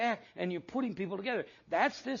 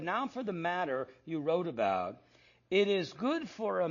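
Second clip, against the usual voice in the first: reading scripture. Shown as a demonstration. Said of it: "let me read this now".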